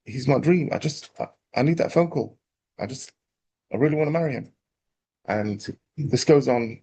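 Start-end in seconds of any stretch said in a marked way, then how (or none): 0.0-4.5 lightly acted longing, a little higher; a hint of a yearning young woman; lovelorn girl. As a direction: pine for the awaited caller, haltingly. Waiting girl acted, longing for call.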